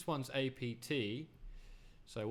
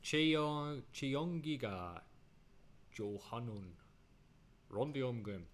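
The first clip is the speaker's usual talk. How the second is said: mock Korean accent; slower than usual. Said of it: "That's my impression".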